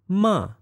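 MA starts high and falls sharply; falling tone. Shown as a demonstration. Teacher demonstrates Chinese sounds, falling tone. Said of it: "if I use the Chinese sounds".

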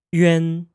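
"yuan" as one syllable, glide into a nasal en; teacher models "yuan" clearly; Mandarin final yuan. Shown as a demonstration. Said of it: "One more time".

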